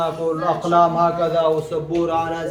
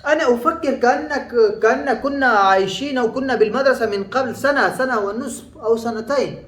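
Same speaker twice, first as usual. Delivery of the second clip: surprised friend; 6 semitones higher than usual. Retold or imitated. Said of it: "ترى واحد صديقك".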